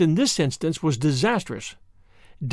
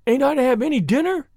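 wailing; 8 semitones higher than usual. Acted. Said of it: "wailed Davy".

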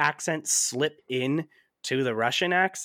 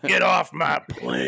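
slow, loud action-hero growl; hammed-up tough-guy command; Harrison Ford; 5 dB louder, slower than usual. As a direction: order them off like a movie hero. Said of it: "He's like".

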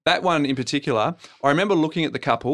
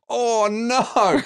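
retold panic; 9 semitones higher than usual. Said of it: "I'm going".

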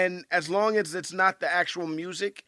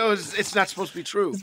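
meek retort; 3 semitones lower, 4 dB quieter, faster than usual. Retold or imitated. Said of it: "and then you go".

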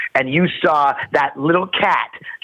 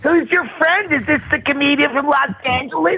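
high welcoming in-law voice; pretending to be the hosts inviting him down; mock in-laws; 9 semitones higher than usual. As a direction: put on a sweet, higher host voice. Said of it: "voicing the in-laws".

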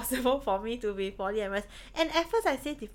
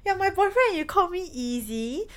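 mock outraged; 7 semitones higher than usual. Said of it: "someone will say".

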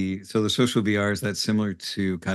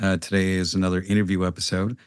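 quiet, far from mic. Real, not acted. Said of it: "I sound very quiet on that".

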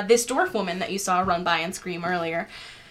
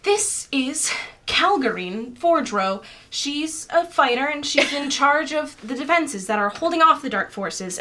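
apologetic introduction; 5 semitones higher than usual. Acted. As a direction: introduce her with mild apology. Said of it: "looks up to you all apologetically and says".

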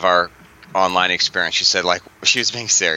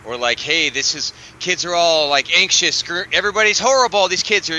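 higher-pitched mock panic; mock alarm; 4 semitones higher than usual. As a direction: parody breathless online scaremongering. Mocks online fear about teens.

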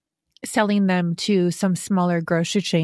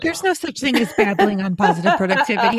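laughing; 3 semitones higher, faster than usual. Real, not acted. Laughing at guest's apology.

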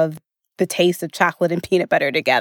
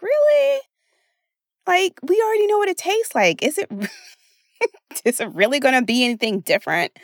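much higher and fast, half-laughing disbelief; incredulous; 7 semitones higher, faster than usual. Retold or imitated. Coach voicing listeners questioning their holiday food, incredulous. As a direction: scoff at the craving like it's silly.

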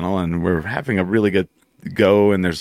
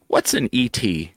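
slow deadpan question; 3 semitones higher, slower than usual. Retold or imitated. Deadpan joke question retold.

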